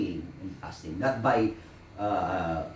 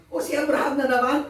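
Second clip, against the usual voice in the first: mock weary demon; 14 semitones higher, 5 dB louder than usual. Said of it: "for example".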